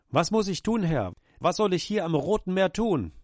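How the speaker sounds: high, urgent plea to the Lord; a frightened servant begging for orders; anxious pleading to God. Acted. Moses anxiously asking God.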